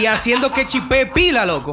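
laughing. Real, not acted. Laughing at Leonel hacking joke.

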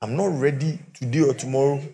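defiant wife. Retold or imitated. Preacher voicing a fed-up wife refusing her drunk husband.

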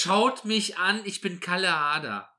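strut it out like a vain star; mock show-off. Mocking a show-off footballer.

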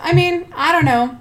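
imitated airy indifference; blasé. Friend mimicking the host about missing shoes, blasé. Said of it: "She was super blasé about it".

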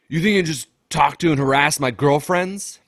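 retold outburst, pushed up and loud; imitated angry confrontation. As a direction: confront him like a jealous boyfriend. Acting out angry man confronting him.

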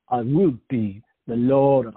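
put-on drawn-out, loud British accent; put-on British accent for a lordly line; mock British accent. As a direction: imitate a forced British accent, stretching the words. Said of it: "they're forcing these accents on people".

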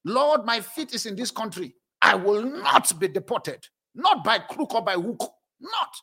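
prayer. Shown as a demonstration. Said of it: "one of the prayers I pray".

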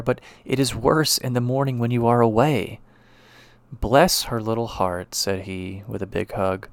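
reads the passage with a lightly voiced doctor husband; story reading. Expressive reading aloud. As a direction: lecturer reading the novella aloud to the class, a lightly acted story voice.

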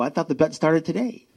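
sneaky laugh through the excuse; chuckle, trying to be slick; laughing sheepishly. Retold or imitated. Sly dodge of the bet.

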